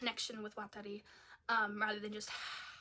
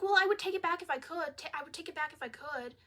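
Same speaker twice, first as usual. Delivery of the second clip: mock girlfriend; 4 semitones higher, faster than usual. Mocking girlfriend's line.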